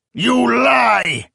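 enraged shout of accusation; furious cry. A narrator's reading. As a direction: hurl it at him in rage. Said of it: "he cried to the Grand Master".

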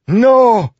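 very high, loud scream of denial; horrified scream. A narrator's reading. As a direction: scream it out in utter horror. Assassin's horror mounts to a scream.

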